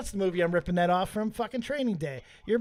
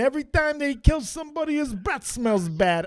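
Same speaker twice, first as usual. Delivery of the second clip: put-on jokey sing-song Irish accent; 5 semitones higher than usual. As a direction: gossip in a playful mock-Irish lilt. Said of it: "why we're doing this accent".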